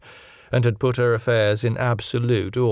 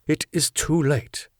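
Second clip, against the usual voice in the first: sternly; 3 semitones higher than usual. Acted. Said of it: "he said sternly".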